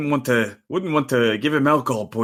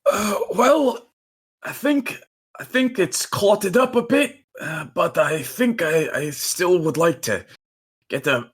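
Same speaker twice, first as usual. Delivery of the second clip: pained dwarf; 3 semitones higher than usual. Acted. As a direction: talk through an aching wound. Dwarf character replies, in-character.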